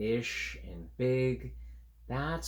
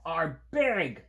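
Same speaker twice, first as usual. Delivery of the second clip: slow, louder, stubborn creature line; insistent creature; 5 semitones higher, 7 dB louder, much slower than usual. Acted. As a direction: drag it out like a sulky creature. Creatures arguing.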